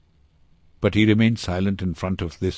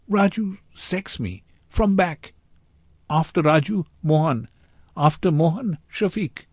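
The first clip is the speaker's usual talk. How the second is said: put-on high-pitched, urgent child's voice; high, loud little-boy voice, halting phrases; distressed boy in broken English; 10 semitones higher, 4 dB louder than usual. A narrator's reading. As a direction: blurt it out as a frightened boy.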